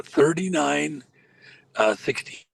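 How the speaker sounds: choppy, breaking-up call line; words cutting out over a bad connection; glitching call audio. Real, not acted. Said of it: "you're glitching out".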